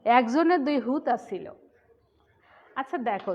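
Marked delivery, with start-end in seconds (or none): 0.1-1.5 louder Noakhali accent; Noakhali dialect. Shown as a demonstration. Teacher shows the class Noakhali speech, louder Noakhali accent. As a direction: say it the Noakhali way, loud. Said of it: "তাদের আঞ্চলিক ভাষায় কি বলে".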